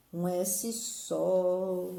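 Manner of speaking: Um S só drawn out word by word, very slow; very slow spelling out. Shown as a demonstration. Teacher to pupils, stressing the rule: very slow, deliberate. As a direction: spell it out slowly so the kids get it.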